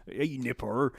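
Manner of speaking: slow, drawn-out Isle of Wight local; Isle of Wight accent. Retold or imitated. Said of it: "It's all like that".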